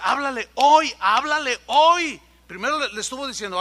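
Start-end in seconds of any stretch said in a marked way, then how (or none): 0.0-0.9 voice of the Spirit. Retold or imitated. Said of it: "el Espíritu me decía". 1.0-2.2 voice of the Spirit. Retold or imitated. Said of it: "el Espíritu me decía".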